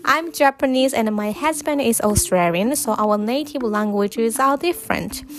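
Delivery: slow, deliberate English with every consonant clear; slow careful English. Real, not acted. Podcaster reading her English diary to listeners, slow and clear. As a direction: pronounce each word slowly for learners. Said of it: "いつもよりはゆっくりと英語を話しています".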